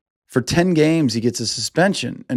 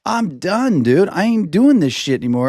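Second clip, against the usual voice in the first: fed up; 5 semitones higher than usual. Retold or imitated. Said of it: "So he's already like".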